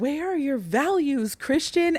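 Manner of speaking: high, hollered call. Retelling a shout at a game: imitating a friend hollering. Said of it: "is quite a thing to holler at a game".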